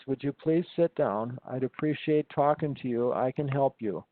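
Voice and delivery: calm an agitated man as if he were right in front of you. Retold or imitated. Retold: talking a pacing, agitated man into sitting down, mildly calm and soothing. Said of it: "I said in a very calm voice".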